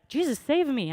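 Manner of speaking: high, loud cry for help; calling for help. Retold or imitated. Sinking Peter calls out to Jesus, a high mock cry. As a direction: shout to Jesus as he sinks, half-acted. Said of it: "And he calls out to Jesus".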